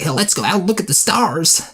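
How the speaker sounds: high-pitched eager dream girl imitation; mock bubbly enthusiasm. Playing the dream girl leading a passive guy, excited. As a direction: burst out like an impulsive, excitable character. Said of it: "she's like".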